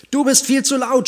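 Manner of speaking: high, loud indignant shout at the bear; squirrel's shout. A narrator's reading. Squirrel yelling at the bear that he is too loud. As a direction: yell it up at the big bear in outrage. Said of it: "schrie das Eichhörnchen zum Bären".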